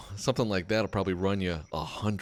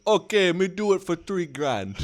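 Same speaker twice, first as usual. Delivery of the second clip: high dopey voice, laughing; a hint of a dim brute; lightly voiced caveman contractor; 10 semitones higher than usual. Friend mocking contractors, laughing dopey high voice. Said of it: "He goes".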